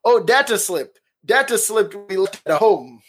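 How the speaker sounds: lightly hammed-up fake accent; Fozzie. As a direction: imitate a character's put-on foreign accent. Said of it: "back in his accent".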